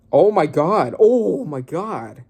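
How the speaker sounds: slow, drawn-out disbelief; stunned slow gasp. Real, not acted. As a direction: let it sink in slowly. Stunned reaction to a death.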